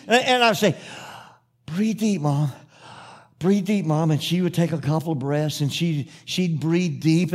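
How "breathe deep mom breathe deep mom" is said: measured coaching in short phrases, with pauses; calmer coaching. Retold or imitated. Son coaches mother through breaths, calmer coaching. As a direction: coach her through each breath without shouting.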